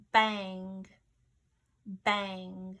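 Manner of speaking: "bang" said alone, drawn out and loud; word dictation. Shown as a demonstration. Teacher dictating to pupils, "bang" loud and drawn out. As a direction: say "bang" loudly and distinctly, pause, repeat. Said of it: "For our word dictation".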